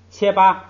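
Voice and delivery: 切八 with 切 high and level; 切 level, no fall, in 切八; sandhi demo. Shown as a demonstration. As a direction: read 切八, keep 切 flat and high. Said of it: "你看第一个也是".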